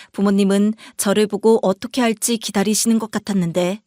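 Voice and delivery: ordinary delivery, nothing marked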